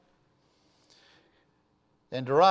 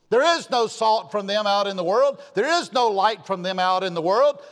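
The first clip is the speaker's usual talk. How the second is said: fervent preaching. Acted. Preacher rebuking the church, fervent raised preaching. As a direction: drive it home to the congregation.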